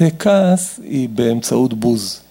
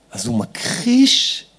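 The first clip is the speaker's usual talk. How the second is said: normal talking voice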